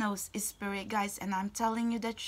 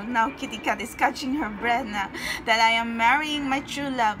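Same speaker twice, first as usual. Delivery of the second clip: ordinary talk, nothing marked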